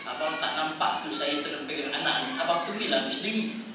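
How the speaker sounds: lightly voiced retort, laughing; mock wife with a faint laugh; wife snapping back. (isteri menjawab sambil tergelak kecil)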